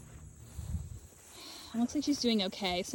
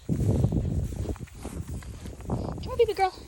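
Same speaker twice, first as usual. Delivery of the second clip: sweet call; 11 semitones higher, faster than usual. Real, not acted. Calling the lamb over, high sweet coax.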